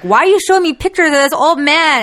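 high-pitched, incredulous complaint; freaked-out mom. Retold or imitated. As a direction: imitate a mom freaking out over a photo. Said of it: "she, like, freaked out".

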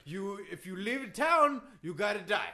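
put-on emphatic accented wrestler explanation; Iron Sheik. Wrestler setting the host straight, emphatic broken English. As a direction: lay down absurd rules in broken English. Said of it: "now Iron Sheik's yelling".

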